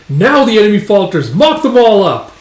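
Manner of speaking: high, loud rallying shout; acted commander's war cry, rising in force; battle command. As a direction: holler orders to the charging troops. Commander orders soldiers to charge.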